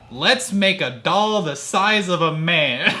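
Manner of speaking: excited. Acted. Acting Thomas's idea.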